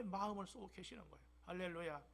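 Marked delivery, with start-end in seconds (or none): none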